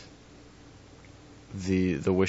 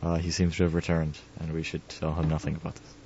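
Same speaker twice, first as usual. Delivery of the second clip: conspiratorial aside. Pretend. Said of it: "an aside to the audience I didn't hear".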